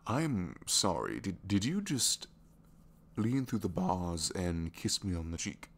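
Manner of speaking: flabbergasted. Acted. Prisoner to the one who just kissed their cheek, flabbergasted. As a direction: reel from a surprise, drawing the words out. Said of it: "I am a tad bit flabbergasted".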